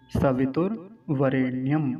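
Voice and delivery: slow syllable-by-syllable सवितुर्वरेण्यम; careful pronunciation. Shown as a demonstration. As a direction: draw out सवितुर्वरेण्यम clearly, as for learners. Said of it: "इसका उच्चारण देख सकते हैं". (सवितुर्वरेण्यम का धीमा, स्पष्ट उच्चारण)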